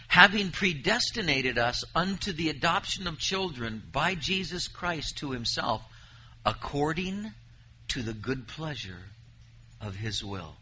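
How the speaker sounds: measured, solemn reading of the verse; scripture reading. Acted. Preacher reading Deuteronomy to his congregation, solemn. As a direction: read the promise out to the congregation. Reads Ephesians aloud.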